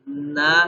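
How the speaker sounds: "نا" said clearly through the nose; na sound. Shown as a demonstration. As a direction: clean short "نا". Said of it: "آواز ہوگی اس کی".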